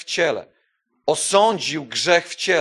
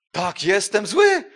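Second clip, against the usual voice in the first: loud, slow, defiant admission; slow shouted confession, higher and louder; 5 semitones higher, 5 dB louder, much slower than usual. Acted. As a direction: shout it back at the accuser. Answering the devil's accusation.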